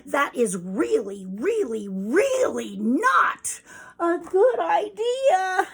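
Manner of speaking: each really building, leaping high and loud; frantic warning. Acted. Chicks going crazy warning of danger, frantic build. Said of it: "her kids go crazy".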